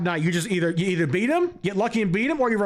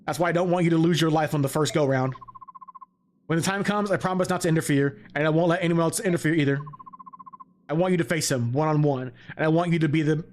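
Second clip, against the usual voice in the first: low, earnest dialogue read; solemn game character; 4 semitones lower than usual. Acted. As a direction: read it as a steady, assured mentor. Reads game character's lines.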